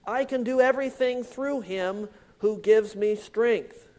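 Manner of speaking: everything given the main weight; stress on everything. Shown as a demonstration. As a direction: lean on the word everything. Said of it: "Emphasis, everything".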